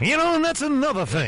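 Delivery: very high-pitched character voice. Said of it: "I thought that is Cameron in Ferris Bueller".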